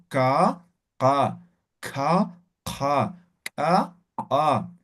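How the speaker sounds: ka from deep in the throat, repeated slowly; deep uvular ka. Shown as a demonstration. Teacher drilling the deep throat Q for students. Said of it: "esto es Ka".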